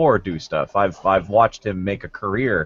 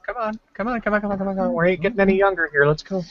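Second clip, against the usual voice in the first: impatient; 10 semitones higher, faster than usual. Acted. Impatiently urging Sidney.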